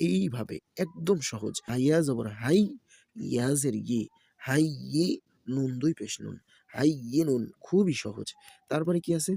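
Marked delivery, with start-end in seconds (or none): 1.7-7.4 rhythmic letter-by-letter chanting; Quran-primer teacher's recitation; spelling drill recitation. Shown as a demonstration. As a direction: spell each syllable, then blend them. Spells out Arabic syllables for learners.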